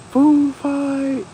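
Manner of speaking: high, loud cafeteria shout; yelled. Retold or imitated. Kid yelling across the cafeteria, loud. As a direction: yell it to start the chaos.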